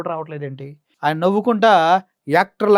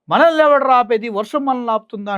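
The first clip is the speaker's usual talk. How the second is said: mocking Pawan; 7 semitones higher, 6 dB louder than usual. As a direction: parody of a defiant stage speech. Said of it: "అంటూ".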